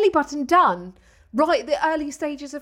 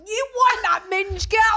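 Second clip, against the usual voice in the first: laughing; 5 semitones higher, slower than usual. Retold or imitated. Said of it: "I would have been like".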